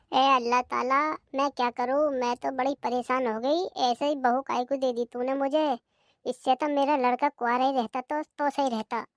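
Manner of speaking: put-on a tired old woman pouring out her woes; weary lament. Mother-in-law laments to God.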